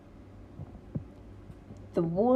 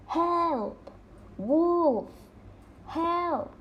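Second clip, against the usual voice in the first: mock shout; 7 semitones higher, much slower than usual.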